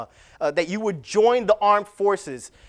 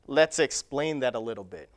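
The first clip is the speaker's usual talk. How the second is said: whisper; 8 semitones lower, 10 dB quieter than usual. Real, not acted. Aside before an illustration.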